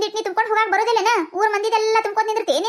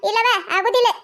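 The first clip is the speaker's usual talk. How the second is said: mock crying. Refused water, whining in quarrel.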